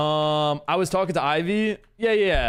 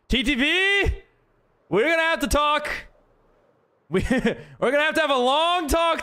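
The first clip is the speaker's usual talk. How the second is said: mock stern voice; 8 semitones higher than usual. Mock-serious talking-to of a viewer.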